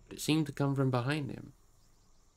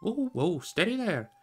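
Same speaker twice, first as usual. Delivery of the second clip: higher, hearty call to halt; a hint of an old man hailing runners to stop; lightly voiced stop, steady now; 8 semitones higher than usual. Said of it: "cried the old man".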